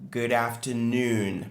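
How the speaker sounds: slow Good afternoon, noon stressed and clear. Shown as a demonstration. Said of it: "l'accentuation est sur noon". (Good afternoon lent, accent sur noon)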